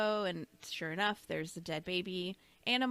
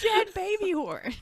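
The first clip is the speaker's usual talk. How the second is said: high, louder mock kid yell; pitched-up playful holler; mimicking a yelling child; 9 semitones higher, 6 dB louder than usual. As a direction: echo the kid's shout playfully. Mimics her child's scream.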